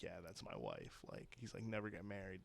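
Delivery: very low, quiet deadpan; imitated husband, hushed and low; offhand aside. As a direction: toss it off under your voice, unbothered. Husband's offhand aside after the fight.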